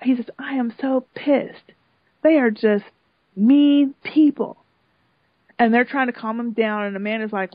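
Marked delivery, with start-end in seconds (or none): 0.4-4.6 irate. Retold or imitated. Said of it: "So he's irate".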